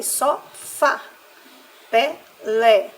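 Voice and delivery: "só fá, pé, lé" with each final syllable punched; stress on last syllable. Shown as a demonstration. Teacher reading oxytone examples to children, final stress. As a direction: hit "fá" and "lé" hard, one beat each. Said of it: "se encontram na última sílaba".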